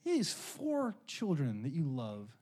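slow hushed whisper; a gentle, slow inner voice asking; God speaking. Retold or imitated. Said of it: "the Lord just said to me".

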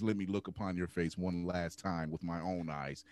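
lightly voiced dying father, low and slow; a hint of a deep, slow film villain; Darth Vader. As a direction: quote it solemnly, low, slow and soft. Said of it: "Darth Vader's line to Luke".

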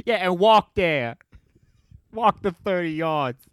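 loud, slow command; hammed-up order, drawn out and loud; mock shouted order. Crew ordering old singer across stage, mock shout.

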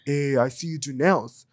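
lightly voiced cholo, pitched low; a hint of low cholo voice. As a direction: imitate a laid-back tough guy, low. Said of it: "straight up cholo".

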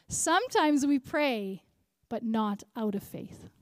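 "Sometimes we pray" drawn out, "not" stressed after a pause; emphatic repeat. Shown as a demonstration. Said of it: "One more time, because it's a really good one".

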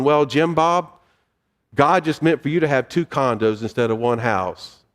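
put-on light Southern accent for a well-meaning Christian; a hint of Southern accent. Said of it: "I slipped in my southern accent".

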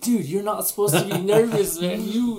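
retold loud, high-pitched protest; mock disbelief. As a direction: exclaim it in playful incredulity. Retold disbelieving reply to nervous friend.

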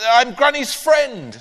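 slow, loud blurted excuse; spluttering. Acted. Panicked boy lying to the neighbour, spluttering. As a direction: splutter out the lie. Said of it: "spluttered Ben".

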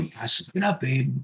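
soft, coaxing rise on up; encouraging, gentle. Retold or imitated. Dad gently urging daughter to tough it out, soft. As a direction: nudge her on kindly. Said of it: "but I tell her".

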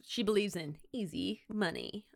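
whispered aside; conspiratorial whisper about easy money. Acted. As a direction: breathe it like a secret. Wry aside.

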